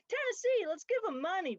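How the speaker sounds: high, loud Southern twang with a crying edge; Tennessee accent. Retold or imitated. Mocking a Tennessee governor in a Tennessee accent. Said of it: "happy to see Chloe's Tennessee accent come out".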